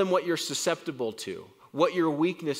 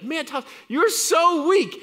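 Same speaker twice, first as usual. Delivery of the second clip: higher, louder, slow jeer; a heckler jeering, higher and louder; mocking critic; 12 semitones higher, 6 dB louder than usual. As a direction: taunt him for weakness. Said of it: "You're like".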